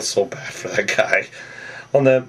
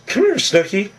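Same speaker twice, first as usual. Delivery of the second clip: much higher, playful mock call; retold come-on, pitched way up; eager call; 9 semitones higher than usual. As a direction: call her over with cocky eagerness. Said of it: "So then he goes".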